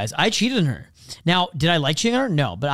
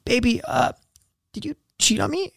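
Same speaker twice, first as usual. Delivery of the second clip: put-on lightly raised, higher girlfriend voice; girlfriend's voice; 8 semitones higher than usual. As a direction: play the hurt girlfriend, pitched higher. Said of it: "She said".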